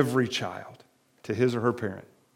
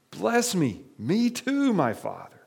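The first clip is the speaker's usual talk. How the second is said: mild weeping plea; 6 semitones higher, slower than usual. Acted. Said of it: "And Esau wept loudly".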